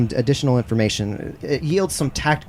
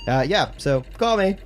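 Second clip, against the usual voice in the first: awkward voicemail sign-off, pitched up; Arvin; 8 semitones higher than usual. Acted. Game master ends the crew's voicemail, awkward higher voice. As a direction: end the message haltingly in a higher voice. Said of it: "attempt a real voice for him".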